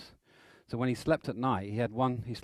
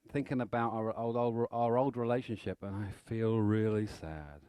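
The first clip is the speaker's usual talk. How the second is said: slow mock sad. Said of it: "like that".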